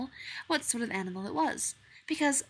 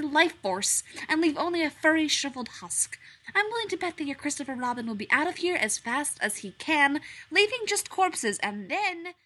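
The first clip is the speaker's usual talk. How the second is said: higher, louder gloating threat; menacing strange animal; 7 semitones higher, 6 dB louder than usual. A narrator's reading. Strange animal gloating about the Wraith, higher and louder. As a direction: relish scaring the bear.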